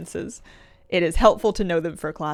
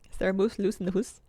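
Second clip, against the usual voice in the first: lightly put-on Scottish accent; tentative fake Scottish, long oo in "hoose". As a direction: ask it with a hint of mock Scottish. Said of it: "fake Scottish version of house".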